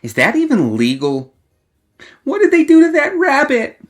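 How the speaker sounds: put-on a playful young woman needling her companion with constant chatter; bubbly teasing girl gawking at curiosities; Alice, chattering. A narrator's reading. Alice's rapid-fire commentary in the market.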